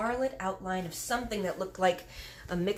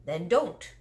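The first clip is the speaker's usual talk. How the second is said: louder, curt giant retort; sharp answer; 6 dB louder than usual. Acted. Giant snapping back at Sophie, sharp and louder. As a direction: cut her off sharply. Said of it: "answered sharply".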